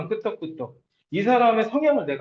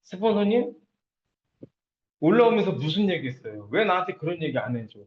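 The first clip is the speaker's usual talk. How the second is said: mild mock grilling, opening on a questioning rise; confrontational questioning. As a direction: imitate a partner demanding answers. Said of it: "이렇게 막 따지는 거야".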